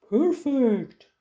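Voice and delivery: gruff-voiced troll, pleased; a pleased troll finding his hiding place; storybook troll, pleased. A narrator's reading.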